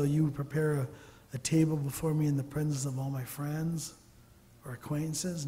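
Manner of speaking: misquote the verse lightly, as if it said friends; playful wrong reading, friends instead of enemies; mock misquote. Shown as a demonstration. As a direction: read the wrong version with a knowing lightness. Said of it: "No, enemies".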